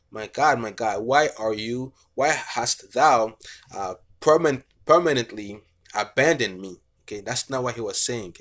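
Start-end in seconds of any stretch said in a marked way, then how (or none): 0.1-6.8 wrong reading. Shown as a demonstration. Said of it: "So he wasn't saying that".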